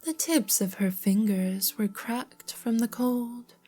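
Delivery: measured storybook narrator; story narration. A narrator's reading. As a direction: read the tale aloud with care. Reads story aloud.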